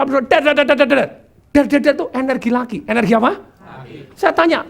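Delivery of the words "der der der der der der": rapid imitated "der-der-der" at higher pitch; full-power rattle. Imitating the sister-in-law at the office, full-power rattle. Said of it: "dia full power".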